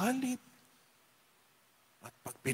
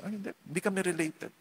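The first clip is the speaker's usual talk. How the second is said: quick dismissive denial; 3 semitones higher, 5 dB quieter, much faster than usual. Retold or imitated. Relative denying poor cousin.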